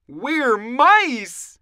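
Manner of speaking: high, loud mouse squeal; squeaky little mouse cry; squeaking. A narrator's reading. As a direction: squeak it back like frightened troops. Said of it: "they squeaked".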